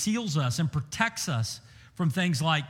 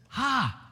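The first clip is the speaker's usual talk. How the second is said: a short startled "Ha!", pitched a little higher, not a laugh; 6 semitones higher than usual. Retold or imitated. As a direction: bark out "Ha!" like a caught demon. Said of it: "he cries out with a loud voice".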